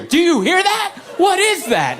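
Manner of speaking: very high mock shriek of alarm; shrill-pitched, hammed-up insistence; escalating mock panic. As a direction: demand it like a frantic hypochondriac. Wife insists, wrist at his ear.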